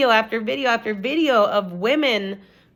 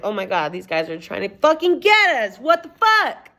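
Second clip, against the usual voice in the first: retold panic, rising much higher on the last words; freaking out; 3 semitones higher, 3 dB louder than usual. Telling viewers about the van, retold panicked outburst. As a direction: voice the panic climbing up high. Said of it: "I'm freaking out".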